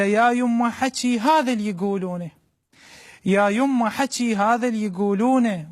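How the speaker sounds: mother's voice in Iraqi dialect; iraqi arabic accent. Acted. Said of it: "بلهجة عراقية خالصة".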